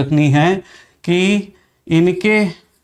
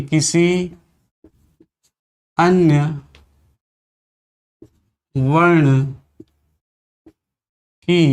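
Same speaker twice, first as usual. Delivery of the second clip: किसी, अन्य, वर्ण, की each said alone with long pauses; dictating to the class; slow dictation; slower than usual. Shown as a demonstration. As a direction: dictate each word separately.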